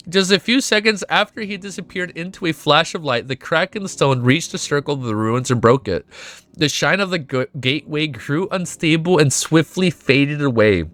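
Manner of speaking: measured novel reading over music; story narration. Acted. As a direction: narrate the collapse steadily, like an audiobook.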